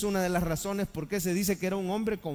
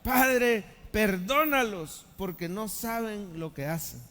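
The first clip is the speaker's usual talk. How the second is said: tender plea; slower than usual. Acted. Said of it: "Y Jesús decía".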